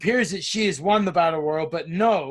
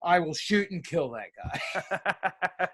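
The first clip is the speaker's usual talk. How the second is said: mock menacing; much slower than usual. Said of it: "who said".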